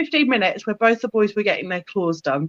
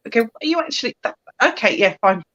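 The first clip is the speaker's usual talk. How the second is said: jittery cat; faster than usual. Retold or imitated. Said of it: "He was just a bit like, jittery".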